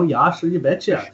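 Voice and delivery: lightly mocking Minnesotan accent on "you betcha"; a self-mocking hint of Minnesota accent. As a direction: toss it off in a folksy Minnesotan accent. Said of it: "I sound like a Minnesotan".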